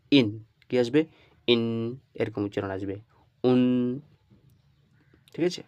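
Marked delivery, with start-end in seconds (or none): 0.1-0.4 ইন sounded out loudly as "in"; pronunciation demo. Shown as a demonstration. Teacher showing how kasra tanween sounds, pronunciation demo. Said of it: "কাসরা তানবিন কীরকম". 3.4-3.6 উন sounded out alone as "un"; pronunciation demo. Shown as a demonstration. Teacher showing how damma tanween sounds, pronunciation demo. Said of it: "দম্মা তানবিন কীরকম আসবে".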